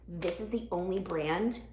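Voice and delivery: talking while winded; short of breath, a bit puffed. Real, not acted. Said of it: "I'm so out of breath".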